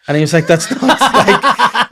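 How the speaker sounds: high-pitched laughter breaking through the words; can barely get it out for laughing. Real, not acted. Telling a friend the Anne Frank story, laughing helplessly.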